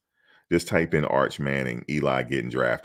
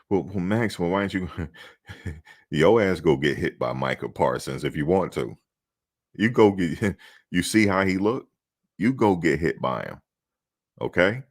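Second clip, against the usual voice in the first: higher, cheeky clapback at reporters, with laughs; ungrateful sass; 4 semitones higher than usual. Shown as a demonstration. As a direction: fire back at the reporter, mocking and cocky. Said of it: "So you can't say that".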